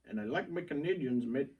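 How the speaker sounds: bad Canadian accent. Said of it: "that was the worst Canadian accent I have ever heard".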